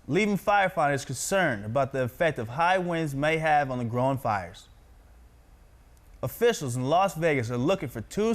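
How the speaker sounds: projected, evenly paced news anchor read. Shown as a demonstration. Practises reading news aloud.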